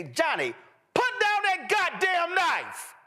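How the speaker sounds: mock furious parent yelling at Johnny; cussing for emphasis. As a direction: blow up on goddamn like a parent losing it. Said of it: "A black person would say".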